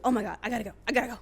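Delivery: mild mock panic; hurried, lightly acted need to flee; retold freak-out. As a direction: imitate someone freaking out, not fully. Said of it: "She's freaking out".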